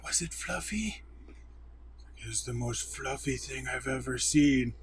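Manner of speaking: a hint of a wide-eyed little girl gushing about unicorns; soft, breathy-eyed kid voice, lightly done. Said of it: "the little girl from Despicable Me".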